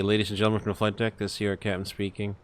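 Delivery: cabin announcement, smooth and measured; captain PA announcement. Acted. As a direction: address the passengers like an airline captain. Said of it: "me do the P A".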